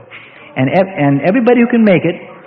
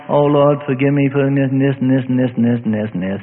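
mock defeated praying; 5 semitones lower, 4 dB quieter than usual. Preacher mocking a worn-out confession, low and droning. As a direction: lower and softer, a droning, defeated plea. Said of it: "draped over".

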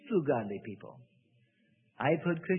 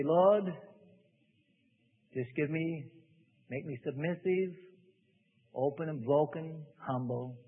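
softer, hushed and meek; humble prayer; 3 semitones lower, 5 dB quieter than usual. Retold or imitated. Preacher mimics a believer praying humbly, softly and meekly. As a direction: let the words sink down in surrender.

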